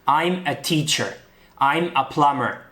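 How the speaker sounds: slow, careful English sentences; English example sentences. Shown as a demonstration. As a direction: say them slowly as a model. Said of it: "si decimos". (frases en inglés despacio, como modelo)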